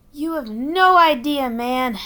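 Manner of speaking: put-on weary Boston accent; tired young bird, Boston accent. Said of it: "said the blue eaglet with a Boston accent".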